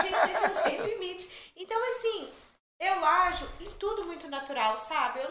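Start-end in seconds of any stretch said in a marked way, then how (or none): 0.0-1.5 laughing. Real, not acted. Laughing retelling the funeral joke.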